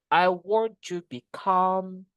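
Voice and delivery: slow phrase with "come" held in "become"; stress on second syllable. Shown as a demonstration. Teacher giving an example sentence, long stressed "come" in "become". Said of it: "That's for example".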